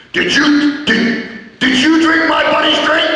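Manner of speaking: hint of a mob boss grilling. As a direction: lean in like a mobster. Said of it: "he sees Mad Dog".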